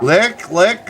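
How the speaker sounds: high, loud, slow wrestler shout; hammed-up wrestler bellow. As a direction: boom it out like a cartoon wrestler. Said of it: "two grown men are gonna lick each other's heads".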